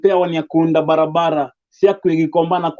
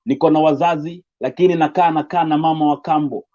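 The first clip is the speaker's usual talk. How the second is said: rhythmic recited poem, a touch fuller; steady spoken word delivery, lightly lifted. Acted. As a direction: perform it like a slam piece.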